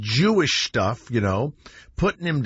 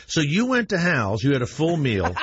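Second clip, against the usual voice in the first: sceptical recap. Retold or imitated. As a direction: imitate an officer feigning puzzled disbelief. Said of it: "let you hear how stupid your story sounds".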